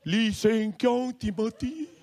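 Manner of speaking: slow, stretched-out roll call; officer calling name. Retold or imitated. Traffic police calling the learner for his test, drawn-out. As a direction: call out the full name slowly.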